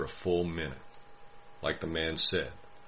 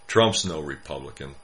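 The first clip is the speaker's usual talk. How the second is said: growled; 2 semitones lower, 5 dB louder than usual. Acted. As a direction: growl it through a mouthful. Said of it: "he growled in a mouthful of rage".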